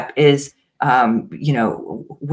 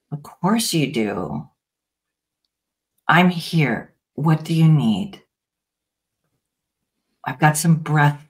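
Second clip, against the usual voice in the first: gentle reassurance. Shown as a demonstration. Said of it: "turning to it and saying".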